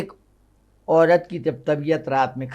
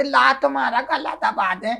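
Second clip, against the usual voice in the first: higher, laughing wife voice; wife's mock offer; 8 semitones higher than usual. Wife offers to squeeze his throat, with a laugh. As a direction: tease it out like a doting wife. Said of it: "तो वो कहती थी".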